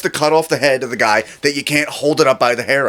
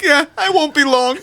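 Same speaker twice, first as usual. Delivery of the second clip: Jewish comic voice; 13 semitones higher than usual. Pretend. Comedian bit punchline.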